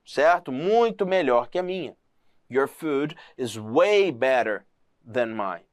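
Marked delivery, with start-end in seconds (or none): 2.5-5.6 way leaned on, slow and low; slow down and hit way; a slow demo line that weighs on way; stress on way. Shown as a demonstration. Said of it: "jogam uma entonação nesse way".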